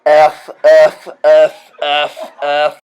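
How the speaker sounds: trying to say ash with the tongue held, loud; holding tongue. Shown as a demonstration. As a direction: say ash while pinching your tongue. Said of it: "Try to say ash while holding your tongue".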